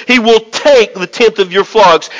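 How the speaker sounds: "take" given the main weight; stress on TAKE. Shown as a demonstration. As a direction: press on "take" before moving on. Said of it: "I'm gonna emphasize the word".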